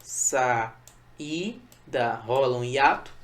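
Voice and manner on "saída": "saída" as SA, Í, DA with gaps; lower-pitched, syllable-by-syllable "saída"; split into syllables. Shown as a demonstration. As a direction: separate each syllable of "saída". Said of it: "O mesmo acontece com saída".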